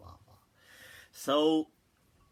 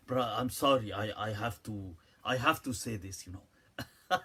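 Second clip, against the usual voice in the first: put-on light Arab accent; 5 semitones lower than usual. Imitating the Arab brother's apology, hint of Arab accent. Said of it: "that kind of Arab accent to his English".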